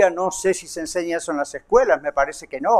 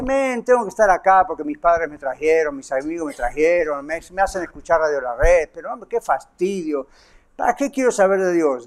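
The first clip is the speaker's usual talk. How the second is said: a lower, fed-up mock grumble; bored scoffer; 3 semitones lower than usual. A listener complaining about being brought to church, mock bored. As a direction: sound dragged along and annoyed. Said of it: "se ríe, dice".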